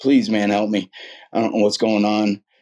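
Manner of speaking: put-on tearful, crying, pleading tone. Retelling how he called a man for help, retelling a tearful plea. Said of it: "I kind of started crying".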